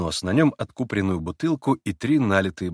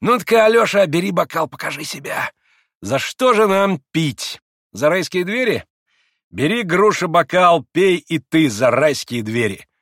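higher, louder sneering man; mocking Rakitin; 7 semitones higher, 6 dB louder than usual. A narrator's reading. Rakitin taunts Grushenka, sneering and loud. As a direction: tease her with contempt.

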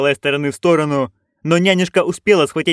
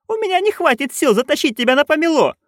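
high-pitched panicked cry; narrated wailing; 13 semitones higher than usual. A narrator's reading. Nanny cannot pull friend onto broom, wailing. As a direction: wail it high, at normal volume. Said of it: "обе ведьмы дружно завопили".

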